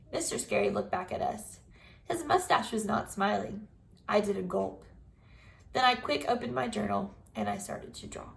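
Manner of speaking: put-on lively storybook read-aloud for kids; reading to children. A narrator's reading. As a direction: tell it like a chapter book to the class. Teacher reads Junie B story aloud.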